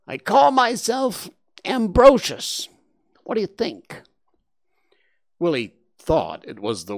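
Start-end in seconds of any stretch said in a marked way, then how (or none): 0.1-4.0 high, loud nasal creature, disgusted; a wet-voiced warthog saying yuck.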